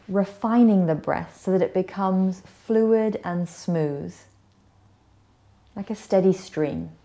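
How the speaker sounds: gentle yoga nidra guidance with long pauses; guided meditation. Acted. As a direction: ease them into rest, unhurried and slightly hushed. Leads a guided relaxation.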